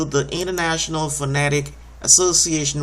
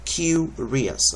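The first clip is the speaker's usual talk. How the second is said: "Curious" with the weight on "cu"; stress on first syllable. Shown as a demonstration. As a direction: lean on "cu" in "Curious". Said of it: "shows you where you put the stress on it".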